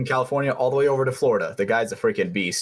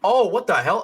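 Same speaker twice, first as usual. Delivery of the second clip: startled; 8 semitones higher, slower than usual. Real, not acted. Startled by a sudden voice.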